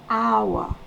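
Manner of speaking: "Our" gliding from a to o; a to o glide. Shown as a demonstration. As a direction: slide from a into o in "Our". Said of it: "On va du A, on va vers le O". ("Our" qui va du A vers le O)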